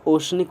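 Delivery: ओशनिक read with palatal श, o-shnik. Shown as a demonstration. Teacher repeats the palatal sh in oceanic. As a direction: say ओशनिक with a clear sh. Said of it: "तालव्य श".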